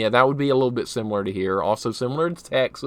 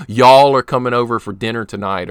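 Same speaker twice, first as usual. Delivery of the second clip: louder Southern-accented example; demonstrating Southern "y'all" talk; 7 dB louder than usual. Shown as a demonstration. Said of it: "I try not to say "y'all".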